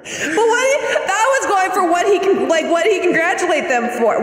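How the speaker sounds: talking through laughter; giggly and high; laughing. Real, not acted. Laughing while retelling the story.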